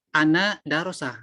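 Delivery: "ana darosa" said as the error, ending in -a; wrong form. Shown as a demonstration. Teacher voices the wrong form "ana darosa" for students. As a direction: show "darosa" as the mistaken verb ending. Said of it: "Itu salah".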